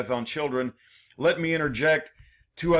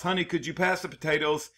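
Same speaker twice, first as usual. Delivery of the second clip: casual dinner-table ask; 3 dB quieter than usual. Shown as a demonstration. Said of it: "such as you might say in a dining table to your spouse".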